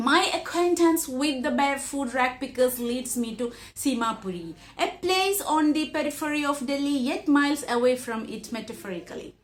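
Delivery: slow, careful read-aloud of the English passage; measured classroom reading; slow textbook reading. Acted. Reads the English text aloud.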